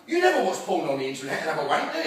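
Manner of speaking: leading question. Acted. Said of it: "They go".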